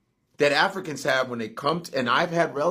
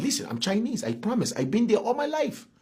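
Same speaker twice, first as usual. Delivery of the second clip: claims Chinese roots in a mock Chinese accent; put-on Chinese accent; 5 semitones higher than usual. Shown as a demonstration. To his cohost, insisting he's Chinese, mock Chinese accent. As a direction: lay a Chinese accent over the promise. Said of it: "I even have the accent".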